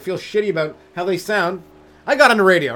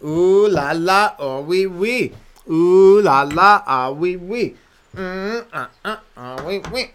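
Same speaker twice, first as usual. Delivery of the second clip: mock French; 2 semitones higher, 4 dB louder, slower than usual. Savoring weed in mock French.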